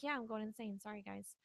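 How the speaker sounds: quiet, softly resigned quote; understated heartbreak. Retold or imitated. Retelling Roy's confession to his family, quiet heartbreak. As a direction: lightly imitate a heartbreaking confession, kept soft. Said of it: "pretty heartbreaking when he said it".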